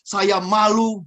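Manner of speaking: mock exasperated complaint; lightly acted, accusing boss venting; scolding manager. Manager blaming the employee for embarrassing him, accusatory scolding. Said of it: "tapi penyampaian lihat".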